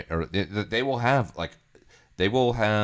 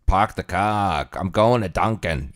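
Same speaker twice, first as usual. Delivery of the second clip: slow, drawn-out mock Boston accent; 3 dB louder, slower than usual. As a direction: drop the r's Boston style, "Park the car". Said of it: "only the white people speak".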